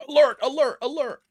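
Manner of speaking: high-pitched alarm call; mock alarm. Streamer alerting viewers, high mock alarm. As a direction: sound the warning like a siren.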